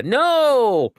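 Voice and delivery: put-on high, loud toddler "No!"; toddler refusing. Dad imitating son turning down being held, high shrill no. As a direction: snap it like a cranky little kid.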